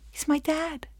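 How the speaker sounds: high, soft, delighted lift; happy relief. Acted. Defendant glad the judge is dad, happily relieved. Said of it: "I'm so happy and relieved".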